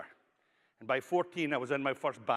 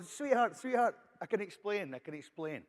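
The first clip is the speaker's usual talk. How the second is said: pleading husband; 4 semitones higher than usual. Acted. Husband pleading caught sneaking in.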